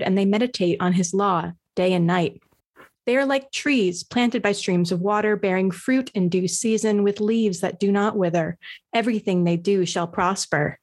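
measured, solemn psalm reading; scripture reading. Acted. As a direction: read it like a lesson in church. Reads the psalm.

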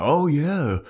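hammed-up sarcastic approval. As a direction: cheer on a bad idea, mockingly. Mocking a character's monologue.

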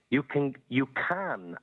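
"can" drawn out slowly and firmly; stress on CAN. Real, not acted. Caller insisting on his point to a podcast host, stress on "can". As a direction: lean hard on the word "can". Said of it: "putting the emphasis on the word can".

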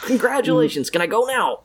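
put-on sarcastic kid.

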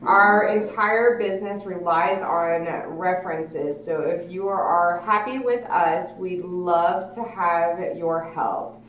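reading note aloud. Acted. Reads handwritten note aloud.

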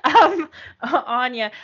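exaggerated Canadian accent on Anya. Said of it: "that was my horrible Canadian accent".

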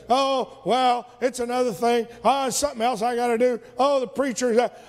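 bored, brushing it off, hurried; mock weary churchgoer with a laugh; dismissive attitude. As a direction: rattle it off like another chore. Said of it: "I can come in with an attitude of".

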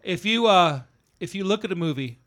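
speaking through a burp; words pushed out on a belch. Real, not acted. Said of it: "Burp and yawn and jeez".

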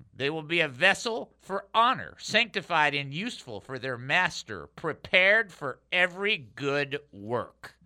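measured, phrase by phrase, slowing to the close; scripture reading. Real, not acted. Pastor finishes the verse for listeners, measured and emphatic. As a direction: read it out deliberately, landing the last words. Reads a Bible verse aloud.

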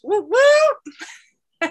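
loud, high whoop of joy; excited cheer. Real, not acted. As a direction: cheer it out like a party. Celebrating husband's snip news.

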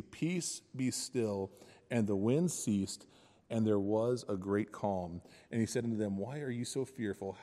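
measured reading of Bible verses; scripture reading. Acted. Preacher reading the storm passage to the congregation, measured. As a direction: read the passage with weight.

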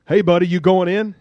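a hint of a gruff tough guy. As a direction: call out brusquely to a stranger. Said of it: "you hear a gruff voice behind you".

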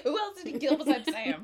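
loud, high disbelief; incredulous. Retold or imitated. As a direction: blurt it out in disbelief. Retold own reaction while watching.

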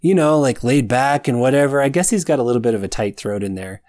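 drawly laid-back surfer dude; Anon. Shown as a demonstration. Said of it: "like a drawly American".

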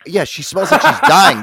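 high, loud, drawn-out mock agreement; big comic exaggerated quote, slowed for the punchline; loud retold retort. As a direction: blurt it out loud and high, half laughing. Loudly acted retort in a retold exchange.

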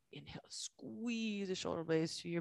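soft breathy whisper on inhale. Real, not acted. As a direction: whisper the cue gently. Yoga cue whispered mid-flow.

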